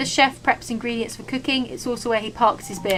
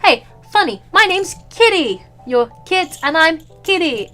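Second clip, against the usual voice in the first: playful; 5 semitones higher, 5 dB louder than usual. Acted. Voicing own character's joke.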